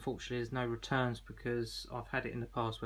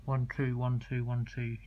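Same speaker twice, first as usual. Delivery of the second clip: loud count into the radio; radio test count; 5 dB louder than usual. Shown as a demonstration. Seller showing the unsynced handset, loud test count. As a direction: call out numbers for a transmit test. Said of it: "You hear nothing coming out of that handset".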